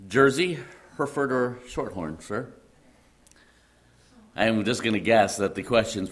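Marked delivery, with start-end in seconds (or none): 0.1-2.5 lightly acted butler, higher pitch; a hint of a polite butler; butler offering choices. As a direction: go through the options as a questioning butler. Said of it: "The butler then asked".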